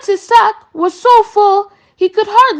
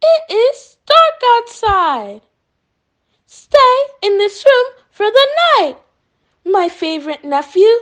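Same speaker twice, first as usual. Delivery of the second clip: sly grin. Acted. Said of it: "Tiger said with a grin".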